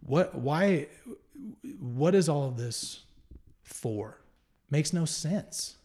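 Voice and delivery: halting, mildly exasperated questioning with pauses; retold angry prayer. Man retelling his prayer to God, mildly angry and baffled. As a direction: demand an answer, anger held in check. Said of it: "it was angry".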